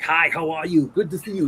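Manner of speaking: lightly voiced star working the line; Arnold. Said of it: "like, really fast".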